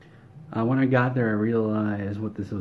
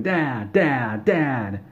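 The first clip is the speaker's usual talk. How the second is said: mock screaming; 3 semitones higher, 4 dB louder, much slower than usual. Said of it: "he just keeps screaming".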